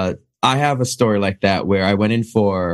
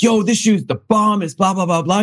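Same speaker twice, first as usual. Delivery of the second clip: exaggerated street voice; 9 semitones higher than usual. Actor pitches the shoe to the casting director in a put-on street voice. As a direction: play it street for the audition. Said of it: "I just go as street as I can".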